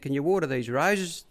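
a high, chirpy put-on trainer's voice; mock-cheerful boss dropping by; imitating Bart, breezy. Bart asks a favour.

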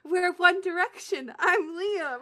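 put-on hammy British accent; bad British accent. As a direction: announce it in a poor British accent. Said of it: "do a bad British accent".

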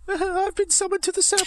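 very high, giggly Mickey Mouse squeak; high squeaky voice. Acted. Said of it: "Why do you sound like Mickey Mouse?".

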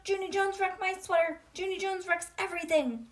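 put-on high tattling girl voice; high whiny classmate; whiny accusation. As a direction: pin the blame on her. May accusing.

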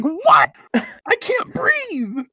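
high, slow strangled squeak; gasping mock Artemis. Artemis reacting to Minako's roast suggestion, high strangled squeak. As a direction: squeak out like he's choking. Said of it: "he's like".

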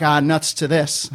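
slow, lightly voiced 1920s kid; a hint of an old-timey kid. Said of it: "speaks like a nineteen twenties kid".

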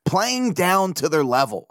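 Playing down to their level said slowly, each word weighed. Shown as a demonstration. To Orioles fans, repeating the phrase slowly and disapprovingly. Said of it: "that sounds bad when you say it like that".

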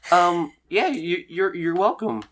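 high, halting woman's voice; awkward woman character. Acted. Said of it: "And she goes".

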